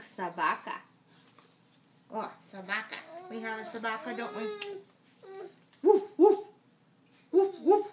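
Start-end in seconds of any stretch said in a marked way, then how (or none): 5.8-7.9 loud, high woof woof; dog bark. Acted. Parent reading to child, loud high dog barking. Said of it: "says the собака".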